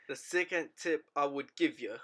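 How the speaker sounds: a slight English accent on "second tip", quiet; a hint of a British accent, said almost by accident; a light English accent on a casual tip. Real, not acted. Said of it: "I just said that in an English accent".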